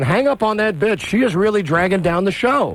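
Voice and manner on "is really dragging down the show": ordinary talk, nothing marked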